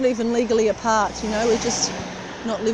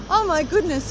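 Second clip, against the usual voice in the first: surprised stranger; 7 semitones higher, 4 dB louder than usual. Retold or imitated. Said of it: "And then he said to me".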